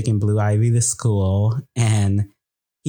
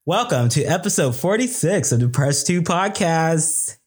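more upbeat intro; 6 semitones higher than usual. Shown as a demonstration. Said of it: "Oh, I can do better than that".

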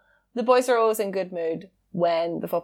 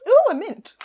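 excited; 13 semitones higher, 5 dB louder than usual. Retold or imitated. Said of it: "I'm like".

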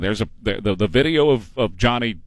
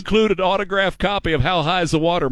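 pitchman voice, higher, but wait there's more; infomercial; 4 semitones higher than usual. Pretend. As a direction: sell it like a late-night TV ad. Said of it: "But wait, there's more".

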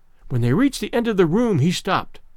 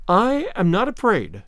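firm; 3 semitones higher than usual. Acted. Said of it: "And she said that firmly".

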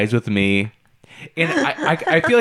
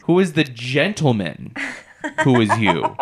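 "gentleman" stressed, then "you"; shifting word emphasis. Retold or imitated. Dad repeating it so Alexa understands, emphasizing "gentleman" and "you". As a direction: punch "gentleman", pause, then land on "you". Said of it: "emphasizing different words".

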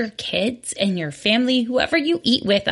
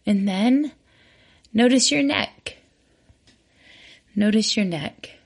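unhurried meditation guiding with long pauses; guided body scan. Real, not acted. Host leading listeners through a walking body scan, calm guided meditation. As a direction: guide them gently from one body part to the next, leaving room between phrases.

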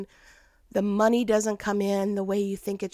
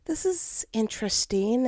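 puzzled taste; 2 semitones higher than usual. Retold or imitated. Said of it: "I took a bite and I went".

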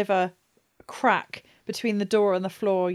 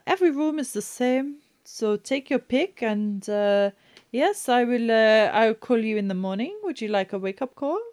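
a hint of a brisk hostess; lightly voiced innkeeper; 3 semitones higher than usual. GM voices innkeeper Madam Ginger.

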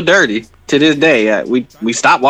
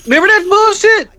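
furious rant; 7 semitones higher than usual. Real, not acted. Ranting at Joe Biden.

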